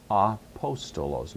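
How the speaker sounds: "Apostolos" slow, syllable by syllable; slow sounding-out. Shown as a demonstration. Teacher repeating a Greek example word, slowly sounded out.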